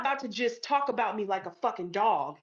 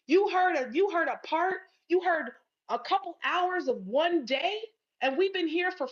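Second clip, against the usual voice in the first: raised, heated voice, higher and sharper; angry; 6 semitones higher than usual. Real, not acted. Scolding a listener who doubted her side, heated and high. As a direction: tear into the critic who judged her.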